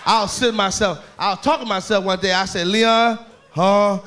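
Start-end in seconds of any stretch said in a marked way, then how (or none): 2.7-4.0 Leon's mumbling talk. Retold or imitated. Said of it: "he can't talk".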